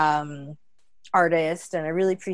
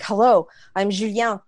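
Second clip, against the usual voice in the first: put-on French accent; 3 semitones higher, 5 dB louder than usual. Trumpet player greets her, French accent. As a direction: say it like a Frenchman introducing himself. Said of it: "he says it with his accent".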